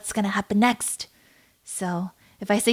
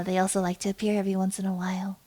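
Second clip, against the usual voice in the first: whisper; 3 semitones lower, 8 dB quieter, faster than usual. Real, not acted. Whispered aside about spirits.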